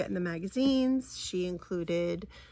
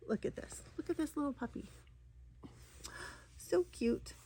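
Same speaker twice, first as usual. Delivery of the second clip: put-on soft, high cooing baby talk, nearly breathless; cooing over a puppy; 7 semitones higher, 9 dB quieter than usual. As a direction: coo at the cute puppy like it's a baby. Robin cooing over puppy fabric.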